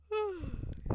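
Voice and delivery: long breathy yawning sigh; stretching yawn. Real, not acted. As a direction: let out a real yawn while stretching. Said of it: "I just gotta stretch and yawn".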